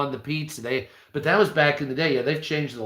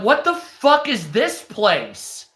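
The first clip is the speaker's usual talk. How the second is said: high, drawn-out incredulous question; higher-pitched, slow disbelief; bewildered disbelief; 6 semitones higher, slower than usual. Retold or imitated. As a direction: stretch it out in retold astonishment. Acts out bewildered reaction in shop.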